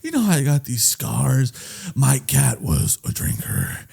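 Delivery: slow, menacing villain monologue; mock villain. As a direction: draw out the sinister confession. Parodies a villain's scar monologue.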